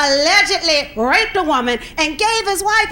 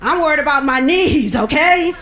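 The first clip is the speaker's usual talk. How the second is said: rattled off fast, a bit lower; fast, lower mock fretting; rushed inner worry; 5 semitones lower, faster than usual. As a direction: hurry through the old worries. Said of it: "I used to think".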